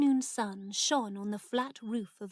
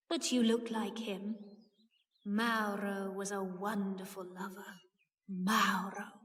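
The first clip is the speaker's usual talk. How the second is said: lightly voiced aunt lost in memory; a touch of wistful longing; aunt reminiscing. A narrator's reading.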